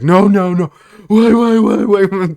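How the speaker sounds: high, drawn-out mock desperate yell; Jon Bernthal yelling. Host retells prisoner begging approaching guards, hammed-up frantic yelling. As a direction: imitate a panicked captive shouting nonstop. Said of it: "But he yells it nonstop".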